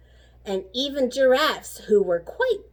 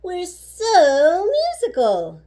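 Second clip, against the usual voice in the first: higher, slow, proud little voice; young kangaroo; 7 semitones higher, 5 dB louder, slower than usual. A narrator's reading. Kangaroo tells the zoo friends, lightly voiced. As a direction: beam it out slowly. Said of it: "cried the young kangaroo".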